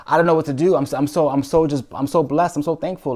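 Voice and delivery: high, stumbling gush of thanks; overwhelmed gratitude. Retold or imitated. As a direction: relive being too thankful for words. Retold overwhelmed gratitude after breaking down.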